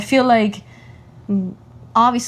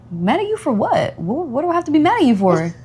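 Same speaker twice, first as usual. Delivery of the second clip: put-on higher-pitched parent-to-child voice; playfully puzzled retold mother, pitched up; motherly reassurance; 7 semitones higher than usual.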